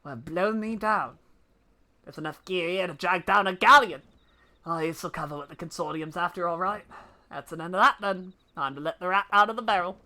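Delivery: lightly voiced old pirate debt collector; a gruff seafaring bailiff, relishing it. Bailiff boasting to the party, a touch of pirate voice.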